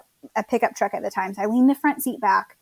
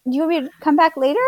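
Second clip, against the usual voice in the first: laughing; 6 semitones higher, much faster than usual. Retold or imitated. Joking reply, laughing.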